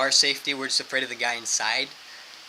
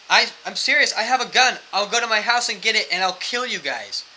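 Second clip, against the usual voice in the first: loud, raised-pitch mock threat; imitated yelling; 7 semitones higher, 6 dB louder than usual. Drunk man threatening to get his gun, imitated yelling. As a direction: threaten loudly, mimicking an angry drunk. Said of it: "he's, like, yelling at us".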